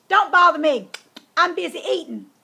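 brushing off. Acted. Busy eating, brushing off tap.

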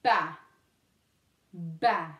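Ba said alone, short and low; isolated syllable. Shown as a demonstration. Teacher isolates the first syllable, short separate Ba. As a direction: give each Ba as one separate low beat. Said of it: "commencer avec la première syllabe".

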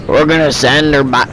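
put-on half-hearted country accent; faltering attempt at country accent. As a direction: try a country twang and give up. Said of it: "I can't do my country accent today".

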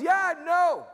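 high, eager agreement; mock-keen young lady voice; excited young woman. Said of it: "And she goes".

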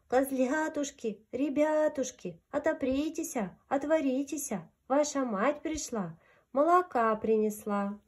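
thin voice. Acted. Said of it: "запел тонким голоском".

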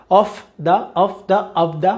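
"Of the" said as "ov the", glued together; V linked to the. Shown as a demonstration. Teacher contrasting F and V linking for students, linked. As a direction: link "Of" into "the" with a V sound. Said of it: "más fácil pegar la V de Víctor con the".

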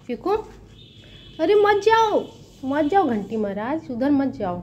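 high-pitched plea to a pet; calling to pet. Real, not acted. Telling the pet not to go there, high pet-talk. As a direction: coax the pet back in a high voice. Calls pet back from danger.

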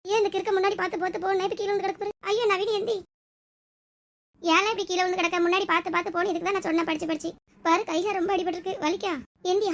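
high-pitched, mildly tearful scolding; tearful worry. Acted. Wife finding Naveen fallen and hurt, high anxious near-tearful voice. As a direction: fret and scold, close to tears. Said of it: "அழாத ஸ்ருதி, நீ அழுவுறதை".

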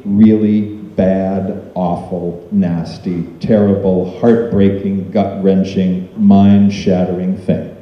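heavy, deliberate pile-up of words; grave emphasis. Real, not acted. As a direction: let each bleak word land separately. Listing a father's suicide's horror.

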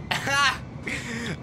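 high burst of real laughter; amused laugh. Real, not acted. Streamer tickled by the French donation voice, amused laugh. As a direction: crack up at the silly bot.

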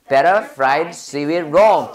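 "better fried seaweed roll" slowly, one word at a time; every sound articulated. Shown as a demonstration. Teacher showing each sound must be said, slow careful "better fried seaweed roll". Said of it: "하나씩 발음 다 해줘야 돼요".

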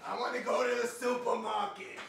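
high, loud put-on caricature; Jenna. Friend mimicking Jenna wanting to shop, high impression. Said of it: "I love your Jenna voice".

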